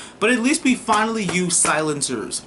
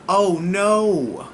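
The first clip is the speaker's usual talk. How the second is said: mock innocence; 6 semitones higher than usual. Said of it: "it'd have been like".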